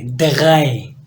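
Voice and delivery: दगाए said as German drei, trilled start. Shown as a demonstration. Teacher demonstrates German three, clear model. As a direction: model दगाए slowly for the class. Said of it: "वो ऐसे पढ़ना है दगाए".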